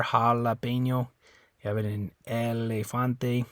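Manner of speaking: "jalapeño" and "elefante" with a clear L; Spanish L sound; Spanish words with single L. Shown as a demonstration. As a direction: say the single L plainly. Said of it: "So you have it there".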